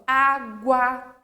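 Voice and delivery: água with the U sounded as a w glide after G; U pronounced. Shown as a demonstration. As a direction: say "água" letting the U be heard. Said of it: "aí eu vou pronunciar a letrinha".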